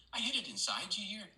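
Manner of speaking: put-on Irish golfer boasting in an Irish accent. Irish golfer boasting to the visiting American, in an Irish accent. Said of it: "excuse my Irish accent".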